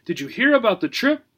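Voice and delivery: high curious gerbil voice; eager little rodent. Acted. Gerbil Obie speaks.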